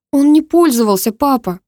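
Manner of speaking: high, loud squeaked protest. A narrator's reading. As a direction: squeak it out in desperation. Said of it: "пискнула я".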